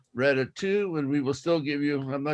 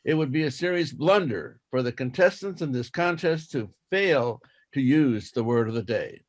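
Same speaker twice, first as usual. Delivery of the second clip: slow school dictation. Shown as a demonstration. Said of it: "I will read it twice".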